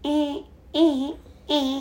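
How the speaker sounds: high, short imitated beeping; alarm beeps. Imitating the kitchen alarm for a friend, high beeps. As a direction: mimic the alarm going off.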